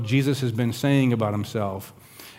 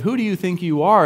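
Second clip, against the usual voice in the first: raised pitch, affronted snap of a question; indignant retort; 5 semitones higher than usual. Shown as a demonstration. Preacher shows the scornful reading, affronted. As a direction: throw "Who do you think you are?" back as an insult. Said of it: "We might read that in the sense of".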